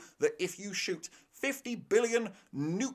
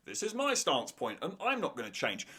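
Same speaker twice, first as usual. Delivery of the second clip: softer, weary repetition of the same stand; stubborn mock quote repeated; 4 dB quieter than usual. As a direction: say it again, just as stuck. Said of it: "characters repeating themselves".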